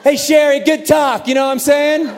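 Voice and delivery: high, loud, over-friendly backpedal; hammed-up cheery shout; sheepish calling out. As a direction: call back brightly to smooth it over. Acted backpedalling, calling back to Sherry.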